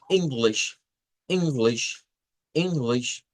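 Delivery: English rising on ENG and dropping on GLISH; up-and-down stress tune. Shown as a demonstration. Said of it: "con ese sub y baja". (English con sube y baja, fuerte en la primera sílaba)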